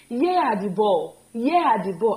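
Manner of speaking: slow, careful wrong sentence; slow teacher demo of an error; slow wrong example. Shown as a demonstration. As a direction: lay out the mistake slowly for the class. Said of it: "Uh, how?".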